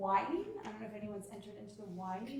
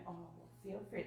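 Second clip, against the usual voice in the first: calm enforceable statement; 3 semitones lower, 8 dB quieter than usual. Shown as a demonstration. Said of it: "enforceable statement".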